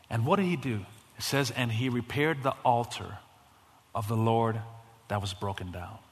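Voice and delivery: soft, low, intimate retelling; hushed storytelling. Acted. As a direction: draw them in quietly.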